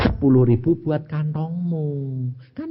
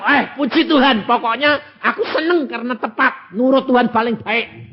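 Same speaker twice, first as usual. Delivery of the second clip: 1 joyful; 10 semitones higher, 4 dB louder than usual. Acted. Preacher acts his joyful reply.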